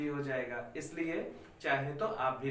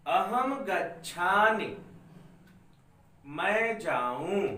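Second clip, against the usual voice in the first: slow, spaced-out reading for the class to follow; slow dictation; slower than usual. Shown as a demonstration. Teacher dictating Sanskrit lines to students, slow and clear. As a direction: spell it out slowly so children can write along. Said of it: "इसको पढ़ता हूँ और आप सभी मिलाइए".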